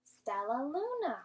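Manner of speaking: Stellaluna said as one smooth word; teacher blending for the class; blended together. Shown as a demonstration. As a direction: run the syllables together. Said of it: "let's say it all together".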